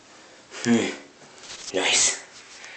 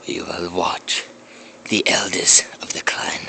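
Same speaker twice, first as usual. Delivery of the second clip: hushed nature documentary; slower than usual. Pretend. Whispered nature-doc narration.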